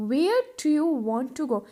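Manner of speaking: calm drawn-out repeat; teacher repeating for the class; slow model repeat. Shown as a demonstration. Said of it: "कैसे पूछोगे?". (धीमा दोहराव)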